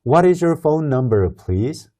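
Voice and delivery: slow, clear read with please rising; teacher's slow model line. Shown as a demonstration. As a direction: read it slowly for learners to repeat. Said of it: "한번 따라서 읽어봅시다".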